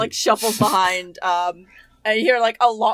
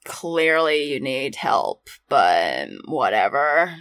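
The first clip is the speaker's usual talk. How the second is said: bored low voice; 7 semitones lower, slower than usual. Acted.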